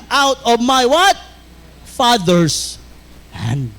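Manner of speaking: slow, drawn-out verse recitation with pauses; leading the congregation through the verse; call-and-response preaching. Acted. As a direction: pause and let them finish the line.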